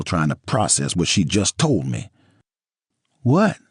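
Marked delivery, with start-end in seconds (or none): 3.2-3.6 scared. A narrator's reading. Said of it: "like she was scared of me".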